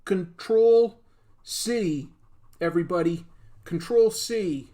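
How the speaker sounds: loud, hammed-up villain call; villain catchphrase. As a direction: bellow it like a cartoon baddie. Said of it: "that's his catchphrase".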